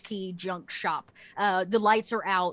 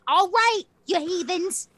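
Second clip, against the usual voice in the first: high, loud holler at the cats; scolding call; 8 semitones higher, 7 dB louder than usual. Acted. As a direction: call out in mock exasperation. Old lady scolds her cats.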